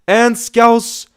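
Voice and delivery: high, loud sudden cry; excited outburst. Real, not acted. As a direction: burst out with the name. Sudden donor announcement.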